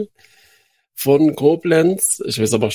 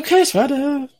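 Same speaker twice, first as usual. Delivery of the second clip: mock obedient; 13 semitones higher than usual.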